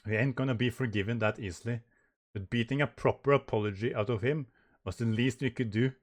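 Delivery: lightly voiced rough character; hint of a gruff tough guy. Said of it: "I'm just gonna do it in that voice".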